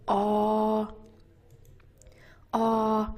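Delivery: "Ah" held with lips in a circle; rounded open vowel. Shown as a demonstration. Teacher showing the circle shape, rounded ah. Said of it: "you make kind of a circle".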